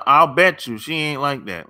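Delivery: ordinary delivery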